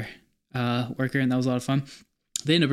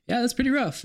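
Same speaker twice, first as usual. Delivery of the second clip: dentist voice; 11 semitones higher than usual. Retold or imitated. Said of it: "he was like".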